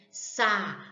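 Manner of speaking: "Sapato" broken into three slow syllables, Sa, pa, to. Shown as a demonstration. Teacher counting syllables for pupils, "Sapato" slowly split up. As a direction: say "Sapato" slowly, pausing after each syllable. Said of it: "Se eu falar devagar a palavra sapato".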